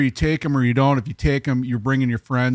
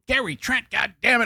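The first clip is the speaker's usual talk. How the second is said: higher, fed-up outburst; mock exasperated girlfriend; 9 semitones higher than usual. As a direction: spit out his full name in exasperation. Angry girlfriend on phone.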